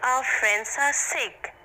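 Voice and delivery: the teacher announcing the sad news to pupils; teacher's lament. Acted. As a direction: say it like a sorrowful teacher. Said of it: "Very calmly, Sir said".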